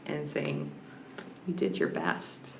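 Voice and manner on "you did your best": soft, low reassuring grandma. Retold or imitated. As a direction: gently soothe like a grandma. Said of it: "being like a grandma".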